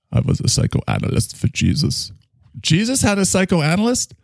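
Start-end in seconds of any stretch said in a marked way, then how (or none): 0.1-2.1 put-on deadpan German doctor accent. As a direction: claim it with a straight face. Character continues.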